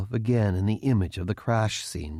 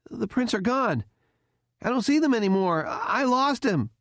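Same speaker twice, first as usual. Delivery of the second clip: mild panic; 12 semitones higher than usual. A narrator's reading. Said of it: "obviously starting to panic a bit".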